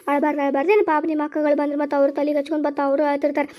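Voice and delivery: low, softened comforting voice; low and tender; gentle soothing. Acted. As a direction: hush a crying child tenderly. Mother soothing a crying child.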